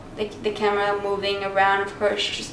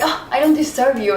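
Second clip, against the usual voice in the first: mock-modest sarcasm; lightly hammed-up false humility; super sarcastic; 2 semitones higher than usual. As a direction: say it with playful insincerity. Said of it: "like, super sarcastic and funny".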